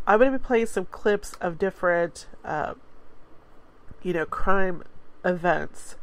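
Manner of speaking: stuffy, congested voice; blocked nose. Real, not acted. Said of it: "I'm so congested".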